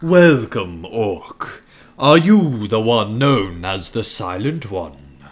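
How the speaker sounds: haughty orc emissary, commanding. Acted. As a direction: lord it over a lowly orc. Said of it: "a really good orc voice here".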